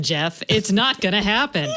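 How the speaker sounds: mock mean girl put-down, stressing not; a hint of Gretchen Wieners, dismissive; lightly voiced catty teen girl; Mean Girls quote. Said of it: "I need the Mean Girls meme".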